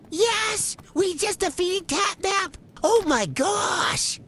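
high, slow, drawn-out celebration; triumphant excitement. Real, not acted. Player celebrating Catnap's defeat, triumphant excitement. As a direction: crow it high, stretching the words.

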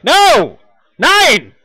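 loud high shout. Acted. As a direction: yell the refusal. Character shouting refusal.

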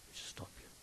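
breathless whispered note to self, off the record; whispered aside. Real, not acted. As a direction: drop to a real whisper to say we stop here. Reader's whispered aside to stop.

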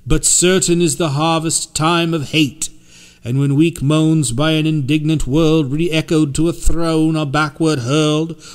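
measured, solemn verse reading; poem recital. A narrator's reading. Poet reciting an epigraph in solemn verse. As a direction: read each line like a grave warning.

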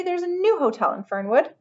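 high-pitched burst of news. A narrator's reading. Henry bursting with news of a rival hotel, blurting. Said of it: "burst Henry".

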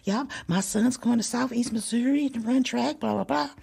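high, sweet bragging mother voice; high mock society mom chat; proud mom. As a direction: chirp like a proud mom at the banquet. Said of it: "they talking".

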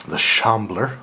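lightly French-accented creature name; a bad, slight French accent on the name; horrible French accent. Real, not acted. Vlogger naming a monster card, accidental bad French accent. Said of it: "said it with a horrible French accent".

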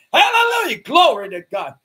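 hallelujah leaps very high, then settles; ecstatic praise. Retold or imitated. The Marine shaking the pastor, high joyful cry. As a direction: burst out with joy. Marine grabs and shakes him.

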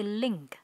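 teacher shows the final K. Shown as a demonstration. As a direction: link with a clear K at the end. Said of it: "có âm K ở cuối".

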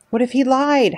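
high, loud howled question; howling. A narrator's reading. An animal howling at Roz in protest, high and loud. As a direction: howl the doubt at her. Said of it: "howled the voice".

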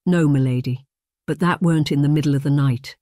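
lightly voiced groom, objecting; arguing groom. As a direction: push back politely but firmly. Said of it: "he argued".

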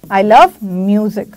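"I love music" drawn out slowly, each word apart; slow dictation. Shown as a demonstration. Teacher repeating the example for students, slow and clear. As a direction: spell it out slowly so students can write. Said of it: "मैंने बोला".

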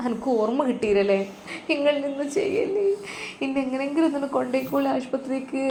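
a lightly acted tearful old mother in the car; crying in pain. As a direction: plead through the pain, half crying. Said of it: "വേദന സഹിക്കാൻ വയ്യാതെ റഷീദുമ്മ കരയുകയായിരുന്നു".

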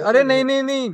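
hammed-up eager denial; excited protest. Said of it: "कह रहे हैं".

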